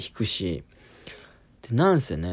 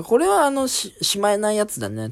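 put-on doctor reassuring in broken Japanese accent; 11 semitones higher than usual. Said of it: "片言なんですね".

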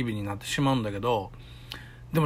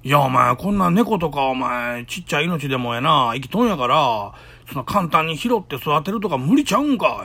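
retold argument; 5 dB louder than usual. Arguing with girlfriend in the car.

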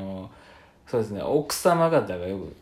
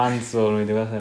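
fast correction; much faster than usual. Shown as a demonstration. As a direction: rush パンツを脱いでください out quickly.

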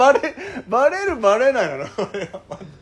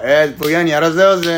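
mock egging-on; 5 semitones higher, 8 dB louder than usual. 男子がはやし立てる再現.

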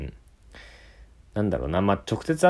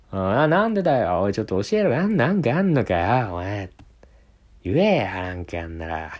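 mock pushy demand. 友達が問い詰める.

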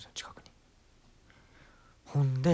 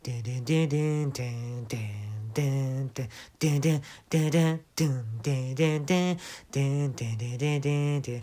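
imitated accompaniment. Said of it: "始まるんですよ、伴奏が".

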